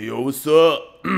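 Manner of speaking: loud mock party-bro voice with grunts; imitating a buff bro trying to get girls; douchey gym bro. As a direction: puff it up like a show-off gym tool. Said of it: "dudes that are, like, always in the party".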